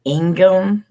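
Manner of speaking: Ingham said ING-um, with the H A dropped; silent H A. Shown as a demonstration. Correcting a friend's Mingo, Ingham as a clear ING-um. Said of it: "You don't pronounce the H A".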